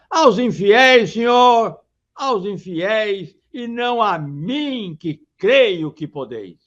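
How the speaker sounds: a hint of the king calling to Christ; king crying out. Teacher voices King Afonso crying to Christ, slow and earnest. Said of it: "assim gritava".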